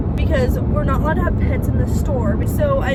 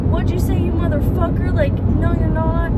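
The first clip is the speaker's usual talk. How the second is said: higher-pitched mock indignation; pressed, offended; 5 semitones higher than usual. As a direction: imitate a guy taking offense. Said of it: "Literally got pressed".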